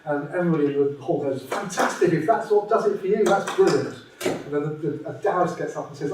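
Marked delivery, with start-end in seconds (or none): 1.4-4.0 higher, bright cheer of a polite crowd; hammed-up applause, all approval; mock enthusiastic crowd. Telling a joke, the hall cheers each believer with mock gusto.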